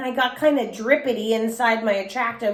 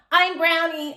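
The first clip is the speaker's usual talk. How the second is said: shouted; 6 semitones higher than usual. A narrator's reading. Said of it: "I shouted".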